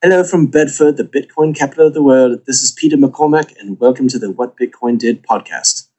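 imitated British accent podcast intro; lightly put-on British presenter; Peter McCormack impression. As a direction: copy the British host's welcome. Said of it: "and I can repeat it".

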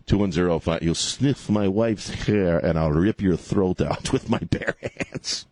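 lightly put-on Russian accent, slow; a hint of Russian villain. Host mocks Putin in a mild Russian accent. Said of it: "in your Russian accent".

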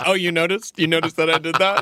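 high, loud, strange booming voice; booming arrogant alien overlord. Retold or imitated. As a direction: boom it out like a smug overlord. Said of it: "This booming voice over the entire".

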